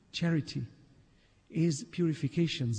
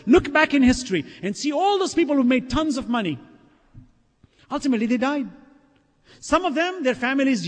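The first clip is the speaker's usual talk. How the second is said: higher-pitched, driving sermon delivery; impassioned preaching; 8 semitones higher, 5 dB louder than usual. Real, not acted. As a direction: press each point home to the congregation. Preaches at full force.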